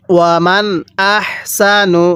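"ওয়ামান" with its n sounded distinctly before "আহসানু"; clear noon sakin. Shown as a demonstration. Teacher shows students the clear noon, "ওয়ামান" n kept distinct. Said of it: "নুন সাকিনটা কিন্তু স্পষ্ট করে পড়তে হবে".

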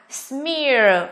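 "smear" with a drawn-out ear glide; EAR vowel. Shown as a demonstration. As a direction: model "smear" slowly, ending in ear. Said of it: "cũng là ear".

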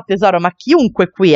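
normal talking voice

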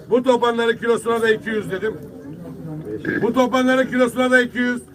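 fish auctioneer calling the price. Real, not acted.

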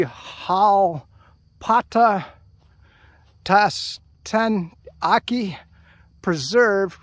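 very slow, halting syllables; long pauses between parts of the name; sounding out carefully. Real, not acted. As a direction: read an unfamiliar name piece by piece.

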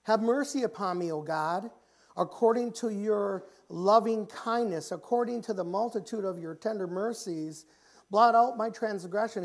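lightly acted prayerful outcry; crying out to God. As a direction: plead for mercy as David. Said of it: "He's crying out to God".

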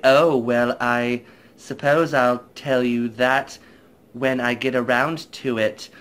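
slow, drawn-out haughty lady; lightly imitating a pompous widow. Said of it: "it's kind of a pompous voice".

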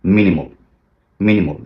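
মিনিমাল ending in a short "mol"; correct minimal. Shown as a demonstration. Teacher models the right মিনিমাল. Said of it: "এর বিপরীত শব্দ কি".

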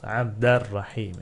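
Abderrahim read the Arabic way, joined as Abderrahim. Shown as a demonstration. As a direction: say Abderrahim as in Arabic, the d running into rahim. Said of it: "Okunuşu, telaffuzu böyle de".

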